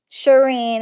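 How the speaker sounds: Shireen said pointedly, with a firm falling end; name said with attitude. Shown as a demonstration. A mad friend saying her full name with attitude. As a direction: drop the name flat to show you're mad. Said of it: "that's how I know when somebody has an attitude".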